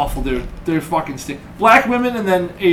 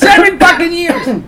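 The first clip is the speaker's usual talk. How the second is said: high, drawn-out yell; incredulous outburst; 11 semitones higher, 3 dB louder, slower than usual. Acted. Podcaster protesting after knowing him seven years, high drawn-out yell. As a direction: blurt it out high and slow in outrage. Mock outrage, repeats his own phrase.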